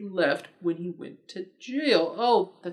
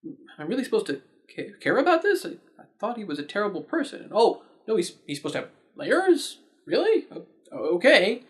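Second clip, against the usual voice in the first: incredulous viewer; 3 semitones higher than usual. Retold or imitated. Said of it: "you think".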